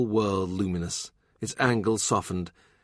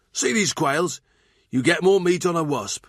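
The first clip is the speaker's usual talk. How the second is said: gossipy cook, higher and gleeful; Thurston the cook; 7 semitones higher, 3 dB louder than usual. Acted. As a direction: relish the bishop's discomfort, pitched up. Cook scorning the quails.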